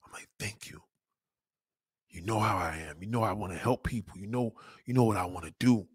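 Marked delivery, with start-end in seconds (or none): 0.4-0.8 barely whispered thanks; tiny hushed thank-you, acted out; retold tearful thanks. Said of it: "And as I'm crying". 2.1-5.9 soft, humble plea to God; hushed appeal, lightly acted; retold tearful prayer. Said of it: "And as I'm crying".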